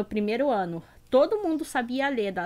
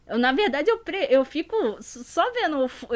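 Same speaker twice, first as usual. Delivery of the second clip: ordinary talk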